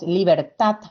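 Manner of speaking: "libertad" with the last syllable TAD stronger; "libertad", weight on its final syllable; stress on final syllable. Shown as a demonstration. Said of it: "Pronunciamos más fuerte la última sílaba".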